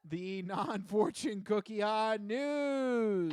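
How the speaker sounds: slow, stretched segment title call; drawn-out announcement. Acted. Host announcing his segment, slow and drawn out.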